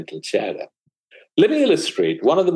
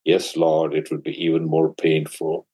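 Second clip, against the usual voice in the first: meek disciple reply; 4 semitones lower than usual. Acted. Disciple answers the Buddha.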